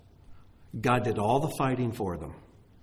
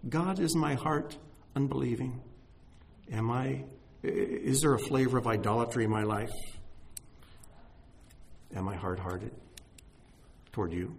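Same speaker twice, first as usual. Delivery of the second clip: quiet prayer; 5 dB quieter than usual. Acted. Models a private prayer.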